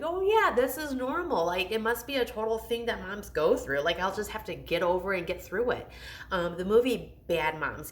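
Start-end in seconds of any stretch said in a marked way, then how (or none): 0.0-5.9 mock cheerful self-reassurance.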